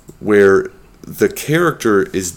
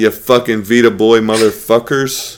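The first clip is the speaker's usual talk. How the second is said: fired-up, slightly raised taunt; pissed-off rant; 2 semitones higher, 3 dB louder than usual. Real, not acted. Podcaster taunting Vita fan channel, pissed off. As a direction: let the irritation out at a rival. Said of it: "I'm still pissed about that".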